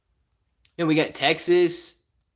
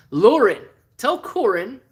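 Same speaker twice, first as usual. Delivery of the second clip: loud high call across the room; 6 semitones higher, 5 dB louder, slower than usual. Real, not acted. Streamer calls to Lauren in the room, loud call. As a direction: call her name, then lift on tell.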